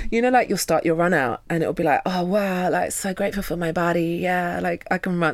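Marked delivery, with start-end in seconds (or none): 2.0-5.3 lightly put-on American accent; hint of American gush; running American voice. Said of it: "my, like, running American voice".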